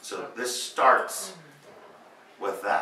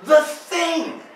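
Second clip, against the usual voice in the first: put-on high, loud delighted cry in a Japanese accent; gleeful Japanese accent; 10 dB louder than usual. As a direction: burst out with it like a giddy fan, Japanese accent. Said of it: "He giggles like a maniac schoolgirl".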